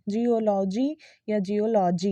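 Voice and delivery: "जियोलॉजी" as jee-o-LAW-jee; full vowels all through "जियोलॉजी"; wrong pronunciation. Shown as a demonstration. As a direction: open "law" in each "जियोलॉजी". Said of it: "नहीं है".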